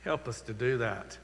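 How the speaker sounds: unhurried prayer with swelling pauses on key phrases; pastoral prayer. Acted. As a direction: lead the congregation in earnest prayer. Pastor leads closing prayer.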